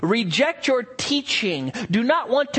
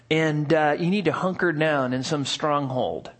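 mock worldly advice; 3 semitones lower than usual. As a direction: hush it like sneaky advice. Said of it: "where people say".

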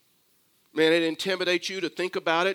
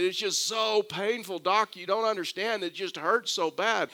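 mild mock scream; 4 semitones higher than usual. Patient pleading with his doctor about the pain, mild mock scream. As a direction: imitate a patient wailing, held back in volume. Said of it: "The man starts screaming again".

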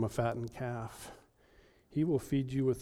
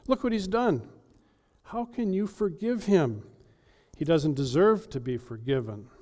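higher indignant protest; indignant older brother; 4 semitones higher, 4 dB louder than usual. Acted. Older brother protesting the father's forgiveness, indignant. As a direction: plead outrage at the father. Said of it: "Notice he says".

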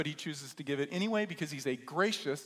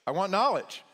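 louder, higher, out of breath from the water; gasping answer; 5 semitones higher, 7 dB louder than usual. Retold or imitated. Young man pulled from the sea gasps his answer. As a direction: blurt it out like you just surfaced.

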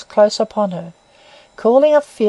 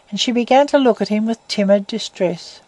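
plain reading voice

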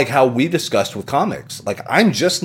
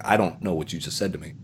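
quick mock mumble; 6 semitones lower, 10 dB quieter, faster than usual. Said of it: "I was like".

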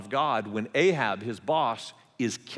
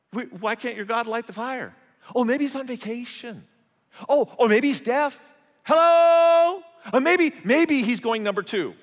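higher, teasing, with a loud high Hello?; mocking taunt; 8 semitones higher, 5 dB louder than usual. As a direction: sneer at the rival prophets' silent god. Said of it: "Elijah starts to mock him".

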